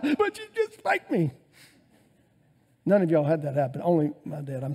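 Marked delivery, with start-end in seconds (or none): 0.0-1.3 put-on much higher child voice protesting; whiny child. Child protesting to dad about the spanking, high whine. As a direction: whine back like a spanked kid.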